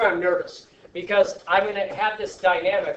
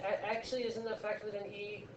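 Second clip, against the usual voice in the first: put-on correcting kid; 5 semitones higher, 11 dB quieter than usual. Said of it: "They're like".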